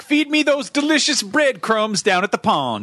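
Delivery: high, slow quacking duck. Acted. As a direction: squawk it out like a pond duck. Host intro gag, quacking.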